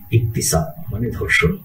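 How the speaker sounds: hushed, warning tone; stern warning. Shown as a demonstration. Teacher warning workers in Arab countries, hushed and grave. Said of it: "খুব, আ, খবরদারি দিয়ে বললাম".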